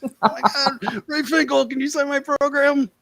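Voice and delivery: mock fan begging for an autograph; excited fan. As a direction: play the starstruck fan asking for a signature.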